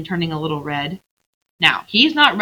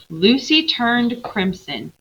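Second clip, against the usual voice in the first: slow, higher, drawn-out reading; slow emphatic reading; 5 semitones higher, slower than usual. Shown as a demonstration. Teacher reading to the class, slow and emphatic. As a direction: linger on each word. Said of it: "Hold on, we gotta finish".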